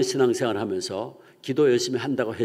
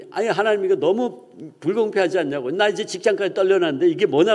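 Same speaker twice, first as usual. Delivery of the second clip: acted, higher-pitched grievance; indignant protest; 5 semitones higher than usual. Jobless Bruce protesting his lot to God, acted indignant protest. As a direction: plead your case with exasperation.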